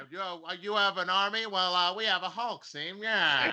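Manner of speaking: put-on old-timey gangster voice. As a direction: clip it like an old movie mobster. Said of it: "but with old-timey voices".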